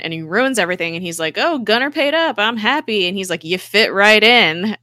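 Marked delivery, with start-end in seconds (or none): 1.4-3.1 loud, high imitation of an oblivious man; mock cheerful blurt. Retelling Grill barging in cheerfully. 3.4-4.8 very loud, drawn-out imitation of an oblivious man; mock hearty welcome. Retelling Grill ruining the moment.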